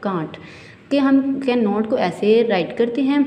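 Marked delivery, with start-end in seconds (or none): 0.1-0.4 can't said short and soft as one syllable; spoken contraction. Shown as a demonstration. Teacher shows students the spoken form can't, short and soft. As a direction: clip it down to can't. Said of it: "for speech its contraction is".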